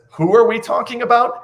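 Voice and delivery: high-pitched mock-clueless question; feigned ignorance. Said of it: "As if he doesn't know".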